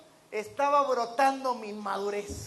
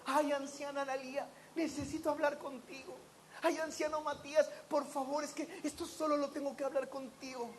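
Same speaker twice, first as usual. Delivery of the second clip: mock worried hush; 7 dB quieter than usual. Mocking worried gossip.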